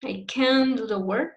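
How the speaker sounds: negative "can" held and stressed before "do the work"; long stressed CAN'T. Shown as a demonstration. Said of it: "Long, not short".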